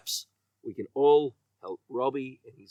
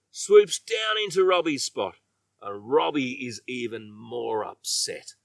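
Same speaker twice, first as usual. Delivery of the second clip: usual speaking voice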